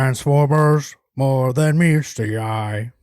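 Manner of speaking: loud, slow movie-trailer announcer booming out the tagline; Transformers trailer voice. Pretend. Cohost asked to do the Transformers tagline, slow loud trailer voice. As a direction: boom it like a blockbuster trailer narrator. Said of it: "Can you do your Transformers, uh, impression a little better".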